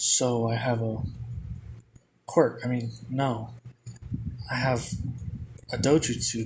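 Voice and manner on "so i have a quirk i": usual speaking voice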